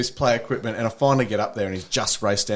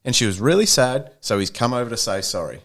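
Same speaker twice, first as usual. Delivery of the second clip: pointed reply; 8 semitones higher, 3 dB louder than usual. Retold or imitated. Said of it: "And I said".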